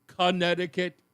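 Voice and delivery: "Connecticut" with a deliberately shaped mouth; labored, over-careful "Connecticut"; effortful pronunciation. Shown as a demonstration. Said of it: "I have to fix my mouth to say C".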